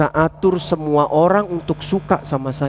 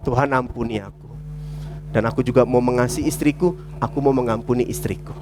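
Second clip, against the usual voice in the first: soft, low prayer; humble self-examination; 5 semitones lower, 5 dB quieter than usual. Acted. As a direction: own the fault quietly before God. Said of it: "orang yang nggak hidup dalam kepahitan". (lirih, rendah hati, seperti berdoa)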